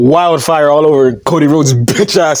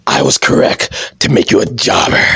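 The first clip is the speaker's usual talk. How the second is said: low, rough boss impression; Vince McMahon; 8 semitones lower than usual. Disappointed boss belittling his champion, low stern impression. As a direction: pronounce judgement in a deep, husky voice. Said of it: "And Vince McMahon is like".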